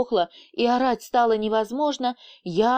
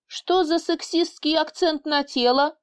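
mock outrage, pitched up; indignant; 7 semitones higher than usual. A narrator's reading. Boss feigning outrage at his assistant. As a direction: act offended, half in jest. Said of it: "возмутился Фил".

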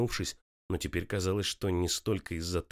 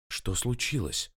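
confused; 4 semitones higher, slower than usual. A narrator's reading. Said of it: "растерянно повторила она".

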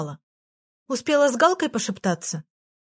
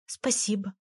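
тише, смущённое «Спасибо»; смущённо поблагодари почти вполголоса; тихо и смущённо; 7 dB quieter than usual. Acted. Аля смущённо благодарит. (Аля тихо благодарит Егора за розу)

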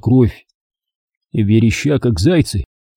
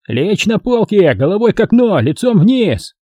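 loud command; 8 semitones higher than usual. A narrator's reading. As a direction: bark police orders. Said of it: "громко советовали они".

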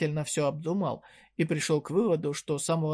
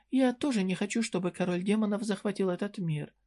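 lightly higher, sly and teasing; a coy shopkeeper needling a young customer; voiced merchant woman; 3 semitones higher than usual. Merchant states her aim. (слегка повышенный голос лукавой торговки)

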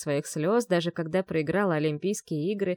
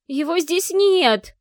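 slow, much higher, louder anguished cry; distressed cry; 10 semitones higher, 9 dB louder, much slower than usual. A narrator's reading. Vi finding Yar gone, distressed cry. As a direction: wail it in dismay.

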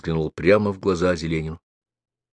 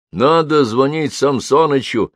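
firm and slow, a little higher; decisive; 6 semitones higher, 3 dB louder than usual. A narrator's reading. Old medic insists they call Samsonych, decisive. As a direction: settle it, no arguing. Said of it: "решительно сказал фельдшер".

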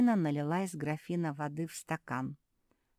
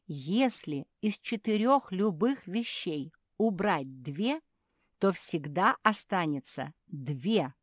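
slow, louder explaining voice; patient lecture; 3 semitones higher, 7 dB louder, slower than usual. Acted. Sister explaining subtraction to the stubborn puppy, slow. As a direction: spell out the rule slowly.

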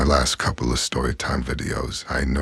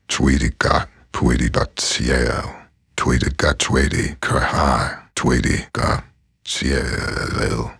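loud, slow, squeaky creature cries; Pokemon cries; 5 dB louder, slower than usual. Retold or imitated. Demonstrating Pokemon voices to viewers, loud cries. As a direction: call out like a tiny Pokemon. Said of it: "I can kind of do some Pokemon voices".

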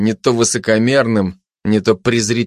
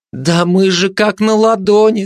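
high-pitched gossip voice; high, insistent agreement; emphatic agreement; 9 semitones higher, 3 dB louder than usual. Acted. Gossip agreeing anxiously they are exposed.

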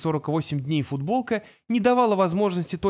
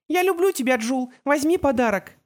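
put-on high, loud child's declaration; a toddler shouting his love; excited little boy; 9 semitones higher, 3 dB louder than usual. A narrator's reading. Boy declares love, offers gift. (громкий восторженный детский голос)

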